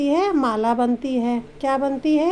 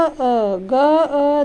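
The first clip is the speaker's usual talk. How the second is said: क ल श spaced out slowly and louder; letter by letter; 3 dB louder, much slower than usual. Shown as a demonstration. Teacher spelling the word for children, slow and loud. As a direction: sound out each letter for the class. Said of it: "splitting the word into sounds".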